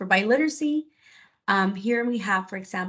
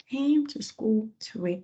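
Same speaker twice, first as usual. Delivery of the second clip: put-on slow, clearly spaced words, dictating to children; slow dictation; 2 semitones higher, slower than usual. Shown as a demonstration. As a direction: read each word slowly for young writers. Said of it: "I like to slow it down too".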